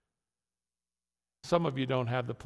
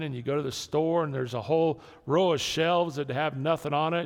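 usual speaking voice

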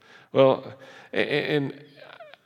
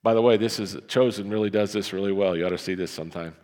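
normal talking voice

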